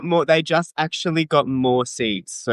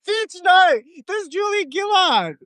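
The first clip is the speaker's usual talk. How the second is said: high, indignant exclamation; outraged. Real, not acted. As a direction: cry it out in disbelief. Outraged correction of friend.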